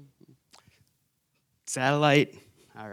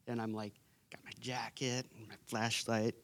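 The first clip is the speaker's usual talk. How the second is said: whisper; 3 semitones lower, 12 dB quieter than usual. Real, not acted. Excited whispered aside.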